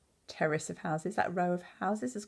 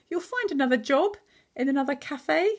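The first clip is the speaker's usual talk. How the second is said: encouraging, pitched higher; cheering up; 8 semitones higher, 3 dB louder than usual. A narrator's reading. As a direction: lift Mum's mood with a hopeful line. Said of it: "tried to cheer her up".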